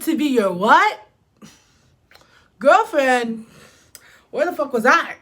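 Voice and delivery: put-on high, loud, stunned "girlfriend?"; loud, high mock outrage at being a girlfriend; shocked disbelief. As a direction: react like the news floors you. Shocked to learn she's his girlfriend.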